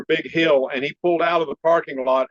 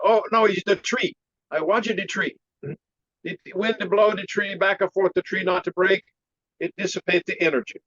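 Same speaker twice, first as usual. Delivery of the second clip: put-on higher Chinese-accented master voice; imitated Chinese accent; 3 semitones higher than usual. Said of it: "you know, like that".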